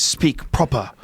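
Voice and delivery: drawn-out, put-on English accent. Shown as a demonstration. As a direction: say it slowly in mock proper English. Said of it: "with an English accent".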